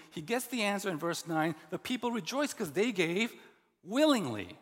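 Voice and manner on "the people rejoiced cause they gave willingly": "willingly" hit hard and loud at the end; stress on willingly. Shown as a demonstration. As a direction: lean into "willingly" as the point. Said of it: "Do you hear the emphasis?".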